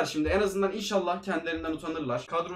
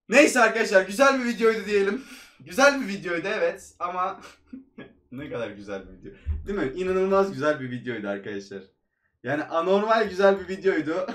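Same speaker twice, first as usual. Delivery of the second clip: sarcastic praise; 3 dB louder than usual. Real, not acted. Ironic praise after disaster.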